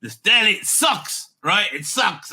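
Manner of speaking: put-on loud, complaining Jewish deli customer accent; old Jewish man griping in a put-on accent; light Jewish accent. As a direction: kvetch about the deli in a mild Jewish accent. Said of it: "I'm putting a bit of an accent".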